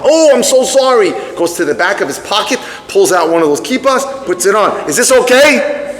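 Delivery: high, laughing sheepish ask; sheepish date. Retold or imitated. Young man putting on a kippah for his date, sheepish and laughing. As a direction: offer it up with a chuckle, eager to please.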